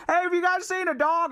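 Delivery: high calling shout from a van; calling out to kids. Retold or imitated. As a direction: call out to the kids for help. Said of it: "yelling at these kids in the rain".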